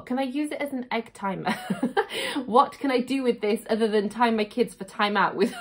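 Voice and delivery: giggling through a joke; laughing. Real, not acted. Joking about timing her kids' time out, giggling. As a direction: laugh between the words as you tease.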